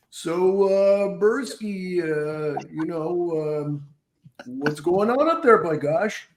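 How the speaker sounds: a hint of a goofy comic calling up; Bruce Baum impression. Comic voiced by prank caller, lightly done. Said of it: "I did Bruce Baum".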